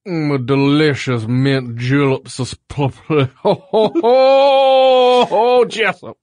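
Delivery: slow, hammed-up Southern gentleman, then a loud jolly ho ho; mixed-up Southern accent. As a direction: ham it up like a planter sipping a julep. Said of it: "you are mixing up some accents there".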